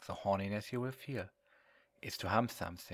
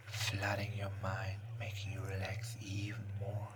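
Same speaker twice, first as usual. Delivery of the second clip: right in your ear; slower than usual. Acted. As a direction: whisper slowly, hypnotic and soothing. Hypnosis induction in whisper.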